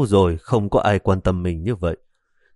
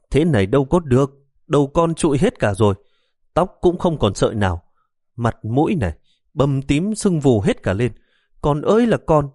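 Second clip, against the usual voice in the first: tearful lament; 5 semitones higher than usual. Acted. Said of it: "Bà cụ bắt đầu nghẹn ngào".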